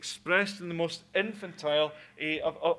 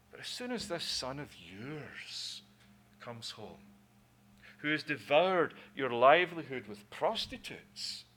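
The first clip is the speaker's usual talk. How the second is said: contemptuous muttering; 4 dB quieter than usual. Shown as a demonstration. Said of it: "the contempt for his brother".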